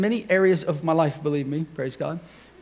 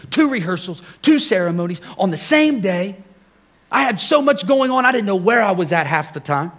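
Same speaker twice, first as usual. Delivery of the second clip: retold exasperated self-defense, pitched up at times; frustrated and defensive; 4 semitones higher than usual. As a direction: plead your overloaded week, a touch indignant. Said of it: "I got a little frustrated".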